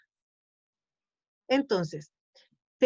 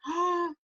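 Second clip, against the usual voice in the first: gasp of realization; 6 semitones higher than usual. Acted. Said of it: "cuando el otro la ve".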